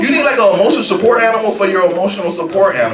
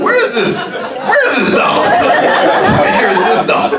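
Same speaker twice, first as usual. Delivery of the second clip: frantic owner; 4 semitones higher, 3 dB louder, much slower than usual. Retold or imitated. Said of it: "I'm like".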